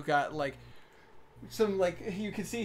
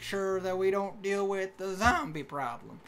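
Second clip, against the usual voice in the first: slow, higher Southern drawl; unhurried cartoon Southern voice; stereotypical Southern accent; 3 semitones higher than usual. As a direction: explain it as a helpful country guard with a Southern accent. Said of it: "really offensive Southern accent".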